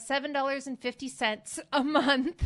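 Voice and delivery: tentative figure tossed out mid-calculation; unsure guess. Real, not acted. Host fumbling the discount math on camera, unsure rising guess. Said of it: "I am so bad at math".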